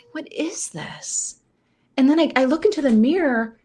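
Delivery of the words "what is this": higher, slow, drawn-out disbelief; appalled disbelief. Retold or imitated. Woman discovering a hair on her chin, slow appalled disbelief. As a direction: stretch it out high and soft, mock horror. Repeats the question, more appalled.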